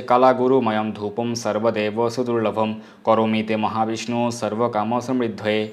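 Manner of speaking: slow, measured chanting of verse; a slow, devout recital of scripture; Sanskrit recitation. Acted. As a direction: intone it like a priest. Recites incense mantra.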